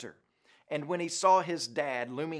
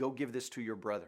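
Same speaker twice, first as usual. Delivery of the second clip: discreet, soft, quiet little half-whisper; 4 semitones lower, 7 dB quieter than usual. Retelling a father handing over a note in church: imitating a half-whisper. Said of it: "he whispered to me".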